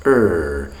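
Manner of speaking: "er" as a drawn English R; English R sound. Shown as a demonstration. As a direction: hold "er" on a smooth approximant R. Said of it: "English has a rhotic phoneme".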